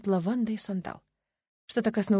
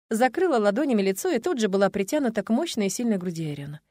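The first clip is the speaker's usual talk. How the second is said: ordinary delivery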